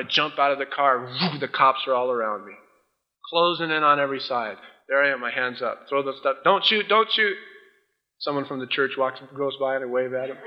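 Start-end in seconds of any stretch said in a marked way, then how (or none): 6.4-7.4 higher-pitched mock surrender plea; mock pleading. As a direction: plead hurriedly with the police, hammed-up. Acting out surrender to cops.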